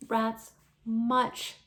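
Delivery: slow, hoarse and shaky; a hint of a hoarse frightened voice; hoarse and weak. Jane recalling the rats to Alexander, slow hoarse voice. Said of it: "in a hoarse, weak voice".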